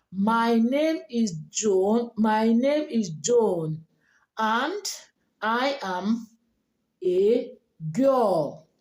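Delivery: slow, measured Nigerian delivery; plain Nigerian accent, each word spaced out; typical Nigerian accent. Shown as a demonstration. Teacher shows how a typical Nigerian introduces herself, Nigerian accent. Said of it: "like a typical Nigerian".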